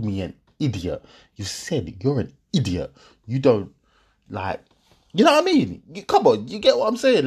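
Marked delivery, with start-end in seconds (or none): 5.1-7.3 louder, higher appeal; exasperated. Real, not acted. Man pleading with viewers about the argument, higher and louder. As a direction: throw up your hands at the listener.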